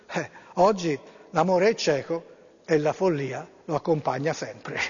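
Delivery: an even, storytelling read-aloud voice; story narration. Acted. Host reading an emailed fable to listeners, storytelling voice.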